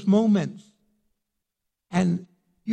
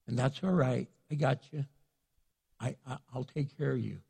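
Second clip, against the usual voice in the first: God reassuring; 3 semitones lower than usual. Acted. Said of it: "God goes".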